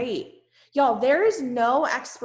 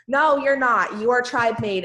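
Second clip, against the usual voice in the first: loud, rough moose voice; 3 semitones higher, 7 dB louder than usual. Real, not acted. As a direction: boom it out in your moose voice. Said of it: "the rest of my moose voice".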